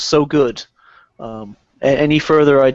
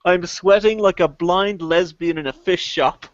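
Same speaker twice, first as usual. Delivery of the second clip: Ray Winston quote. Retold or imitated. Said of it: "Ray Winston best of".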